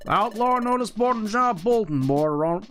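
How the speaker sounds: a hint of country-bumpkin game character; lightly voiced folksy guide. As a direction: lightly play a helpful folksy guide, eager to explain.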